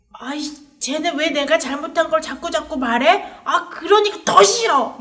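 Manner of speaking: annoyed whine. Acted. People who hate Stephen, complaining.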